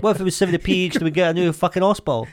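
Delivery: quick angry rant. Acted. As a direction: snap it out fast in mock anger. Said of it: "You got so angry".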